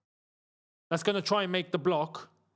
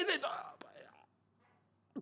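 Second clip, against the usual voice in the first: whispering; 7 semitones higher, 11 dB quieter, much slower than usual. Real, not acted. Waiting to see the replay.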